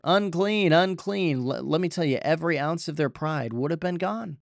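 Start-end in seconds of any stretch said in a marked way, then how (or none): 0.0-1.4 higher, mild mock call of unclean; lightly voiced leper crying out; lepers' warning cry. Preacher voicing lepers kept outside the city, a mild called-out cry. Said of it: "they cried out".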